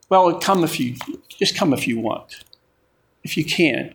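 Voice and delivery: offhand, shrugging, take-it-or-leave-it; casual invitation. Retold or imitated. Preacher mocking a weak invitation to church, offhand and casual. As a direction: make it sound optional and lazy. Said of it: "doesn't leave much room for".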